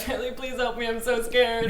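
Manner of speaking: small high frightened plea, imitated; a hushed, frightened girlfriend, imitated; mock scared plea. Wife reenacting girlfriend begging Charlie for help, hushed and scared. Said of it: "that was a really good reenactment".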